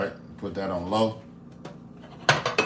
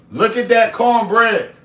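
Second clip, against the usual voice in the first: louder, higher, slower Look at that cornbread; excited exclaiming; 6 semitones higher, 6 dB louder, slower than usual. Real, not acted. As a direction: show off the cornbread with delight. Second take louder higher.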